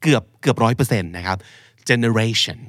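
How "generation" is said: "generation" with the RA stressed, falling to -tion; stress before final syllable. Shown as a demonstration. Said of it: "พยางค์หน้าชั่นจะถูกเน้น".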